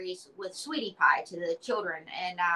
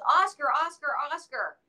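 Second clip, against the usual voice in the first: put-on higher, sing-song nurse calling a child; coaxing nurse; 7 semitones higher than usual. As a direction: gently coax the boy back to his room. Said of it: "a nurse goes".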